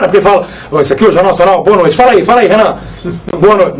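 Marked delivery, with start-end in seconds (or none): 0.7-2.0 lower, a hint of a deep news anchor; lightly voiced deep anchor sign-on; Cid Moreira impression. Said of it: "o Renan consegue imitar o Cid Moreira". 3.4-3.8 lower, a hint of a deep news anchor; lightly voiced deep anchor sign-on; Cid Moreira impression. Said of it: "imitar o Cid Moreira".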